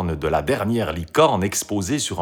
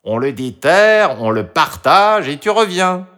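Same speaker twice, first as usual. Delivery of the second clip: emphatic, pitched-up fox voice; persuasive fox; 7 semitones higher, 5 dB louder than usual. A narrator's reading. The fox persuades Toutou to come along, coaxing. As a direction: sell the plan step by step, high and punchy.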